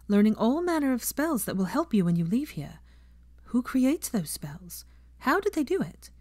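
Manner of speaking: a professor ending her lesson, lightly voiced teacher. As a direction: speak up to the class like a teacher. Teacher lectures her class.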